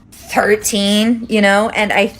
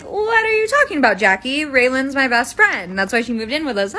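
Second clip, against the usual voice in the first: incredulous denial; 5 semitones higher than usual. Retold or imitated. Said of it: "And I was like".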